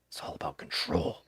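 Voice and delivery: low, hushed breathy villain line; Vince McMahon impression. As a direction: growl it like a scheming boss.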